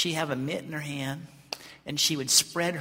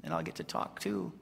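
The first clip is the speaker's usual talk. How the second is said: very low, softer, deflated; acted resignation; 11 semitones lower, 6 dB quieter than usual. God unheard by those praying, acted resigned letdown. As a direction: give up and sink down low after failing to cut in.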